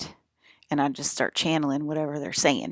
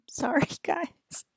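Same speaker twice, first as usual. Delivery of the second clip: slow, higher giggly whisper; whispered apology; 9 semitones higher, much slower than usual. Acted. Apologizing to the viewers, slow laughing whisper. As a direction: breathe a sheepish sorry with a laugh.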